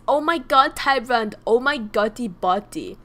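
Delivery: high, loud delighted cheer; excited shout of praise. Real, not acted. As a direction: gush over the student.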